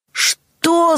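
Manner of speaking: sudden high yell. A narrator's reading. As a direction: shout it out in outrage. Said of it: "заорал он". (Джон орёт на Джейн: резкий высокий вскрик)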